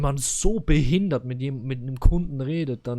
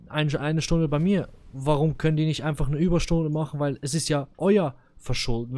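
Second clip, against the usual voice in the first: half-raised, heated retelling of the complaint; retold angry rant; 2 semitones higher, 4 dB louder than usual. Customer retelling his fight with the delivery firm, heated. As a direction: replay the argument with rising irritation. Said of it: "Ich bin komplett ausgeflippt".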